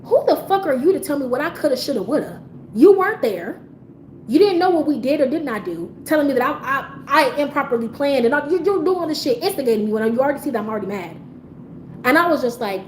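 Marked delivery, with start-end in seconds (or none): 0.0-11.1 heated retold telling-off; going off. Customer confronting a rude station worker, going off. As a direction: lay into them, indignant and pushing. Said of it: "I went off on that lady".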